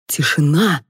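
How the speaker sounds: usual speaking voice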